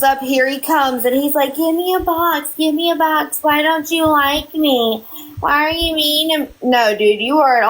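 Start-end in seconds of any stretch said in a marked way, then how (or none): 1.5-6.5 higher-pitched mimicry of needy begging; mock his wheedling for attention; mock pleading. Mocking his pleading for a box.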